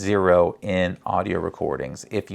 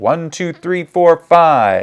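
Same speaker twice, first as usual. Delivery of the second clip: louder, higher performing voice. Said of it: "mic check in your performing voice".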